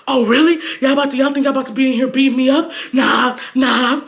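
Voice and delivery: quick, loud-ending retold challenge; mock indignation. Boyfriend challenging two girls, fast mock indignation. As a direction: puff up and challenge both girls.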